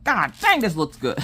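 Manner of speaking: high, delighted gasp of surprise; amazed god dang. Retold or imitated. Crafter amazed at her own painting, squealing high. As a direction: squeal it like the kit shocked you.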